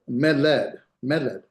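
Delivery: "meled" accented on the opening me; stress on first syllable. Shown as a demonstration. Teacher modelling a marked accent, "meled" stressed on its first syllable. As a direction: lean on me and let led fall in "meled". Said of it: "accent here".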